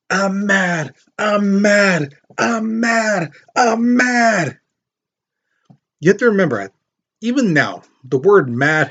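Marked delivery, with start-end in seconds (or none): 0.1-4.6 high, drawn-out mock yell at normal volume. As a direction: imitate a crazed attacker's repeated cries, pitched way up. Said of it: "he's yelling at him".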